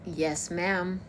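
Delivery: a light Texan drawl on yes ma'am; Texan accent. Shown as a demonstration. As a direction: show off a Southern Texan twang. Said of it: "I am able to do the American Texan accent".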